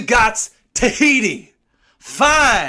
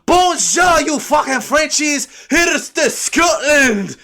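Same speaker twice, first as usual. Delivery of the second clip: yelling out; 8 semitones higher, slower than usual. Retold or imitated. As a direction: bellow "Bonjour" like a rowdy tourist. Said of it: "We yell out".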